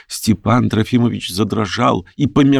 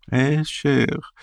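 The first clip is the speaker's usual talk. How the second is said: whisper in the ear; 5 semitones higher, 6 dB quieter than usual. A narrator's reading. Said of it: "зашептал он почти на ухо".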